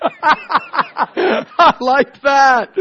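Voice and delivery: stretched, slow, pleased drawl with a laugh; mock admiring himself. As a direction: admire yourself in the mirror, slowly. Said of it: "stopped and went".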